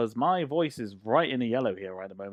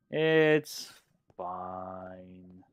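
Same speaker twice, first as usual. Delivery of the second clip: drawn-out reassurance; 3 semitones lower than usual. Real, not acted. Stretched self-reassurance while building.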